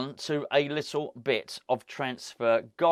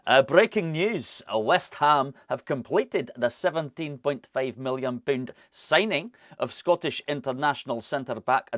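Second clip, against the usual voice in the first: put-on Scottish accent. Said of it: "we've got to do this one in a Scottish accent".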